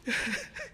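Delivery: short, soft, high sob; choked sob. Real, not acted. Preacher weeping after the Prophet's plea for Hussein, choked sob. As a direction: let a small sob escape.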